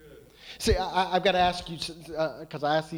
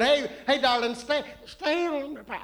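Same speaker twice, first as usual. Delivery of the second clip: put-on sweet old grandma calling, slightly higher; 5 semitones higher than usual. Shown as a demonstration. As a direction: coo it like a grandma. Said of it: "say it in grandma's voice".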